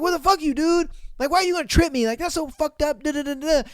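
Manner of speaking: high, indignant mock rant; loud squawky complaint, easing off at the end; imitating a boy furious at being tripped; pissed off. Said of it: "gets pissed".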